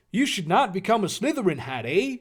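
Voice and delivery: lightly put-on Canadian accent with a high "eh?". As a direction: try a rough Canadian accent, "eh" tacked on. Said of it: "Canadian accent".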